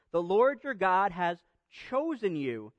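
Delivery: "chosen" set off by a pause before it; deliberate reading that singles out "chosen"; stress on chosen. Shown as a demonstration. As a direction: pause after "has", then land on "chosen". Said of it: "I'll put some emphasis on the word".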